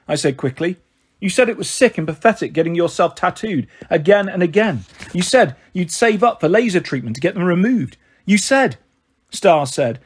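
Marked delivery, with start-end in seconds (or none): 1.2-8.8 a mild rise of a hurt daughter's protest; voice rising. Acted. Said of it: "her voice rising".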